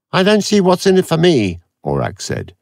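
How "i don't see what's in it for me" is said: high, louder, odd computer voice; a testy supercomputer waking up; irritable machine. A narrator's reading. Aurak snaps at Avon on waking, high and testy.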